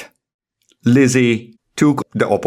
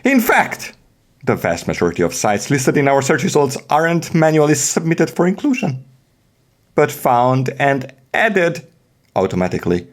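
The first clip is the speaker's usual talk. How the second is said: hammed-up theatrical narration, higher and swooping; dramatic reading; 4 semitones higher, faster than usual. Host dramatically reading documentation to listeners, theatrical. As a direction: play it up like a storyteller. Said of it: "now we are going to do dramatic reading".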